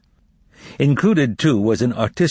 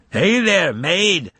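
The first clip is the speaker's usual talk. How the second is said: raised, higher call into a dark hallway; a narrated shout, pitched up; 8 semitones higher, much slower than usual. A narrator's reading. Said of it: "Nikanor Ivanovich shouted".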